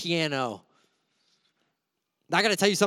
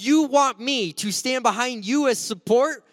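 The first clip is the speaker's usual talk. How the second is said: higher, louder disbelieving question; incredulous protest; 7 semitones higher, 4 dB louder than usual. Retold or imitated. Scrawny youth to big pastor, higher incredulous protest. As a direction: balk at the absurd request. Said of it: "and I'm like".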